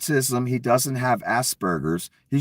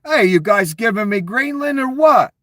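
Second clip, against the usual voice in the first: mock Donnie voice; 8 semitones higher, 5 dB louder than usual. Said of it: "'cause Donnie said".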